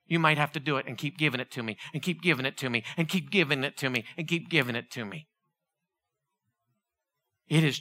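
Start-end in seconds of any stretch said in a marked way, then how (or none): 0.0-5.3 gentle voice of God. Acted. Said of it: "And he says".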